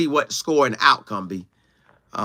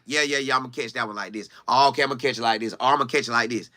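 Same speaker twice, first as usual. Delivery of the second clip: inner thought voice; 7 semitones lower, 5 dB quieter, faster than usual. Retold or imitated. Voicing his inner thoughts while catching.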